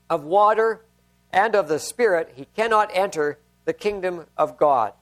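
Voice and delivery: measured, solemn Bible reading to the congregation; scripture reading. Acted. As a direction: read the passage steadily, letting each verse land. Reads John chapter three aloud.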